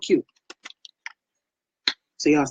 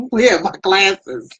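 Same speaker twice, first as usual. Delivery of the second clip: laughing retold question; 3 semitones higher, slower than usual. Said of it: "I was up there going".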